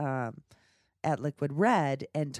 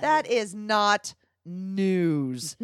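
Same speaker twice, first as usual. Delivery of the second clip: slow and louder through a laugh; 3 semitones higher, 7 dB louder, much slower than usual. Real, not acted. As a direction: drag it out while cracking up. Laughing denial with co-host.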